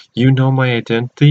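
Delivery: quick, mildly startled question; retold shock. Hero to villain who knows the secret, mildly shocked. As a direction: blurt it out, lightly acting surprise. Character shocked identity is known.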